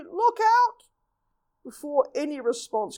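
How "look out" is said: high, loud cry of warning; loud warning shout. Acted. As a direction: call out sharply to warn of danger. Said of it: "he called out loudly".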